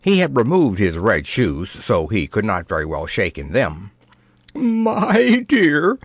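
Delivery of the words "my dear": high, trembling plea from a frightened king; quavering king. Acted. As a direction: let the words quaver up high in fear. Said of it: "quavered the king".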